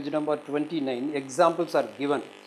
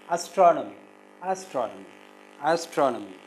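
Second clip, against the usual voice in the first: "astronomy" with weight on TRON; "astronomy", stressing TRON; stress on second syllable; 4 dB louder than usual. Shown as a demonstration. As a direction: lean on the second syllable of "astronomy", then fall. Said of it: "the second syllable is stressed".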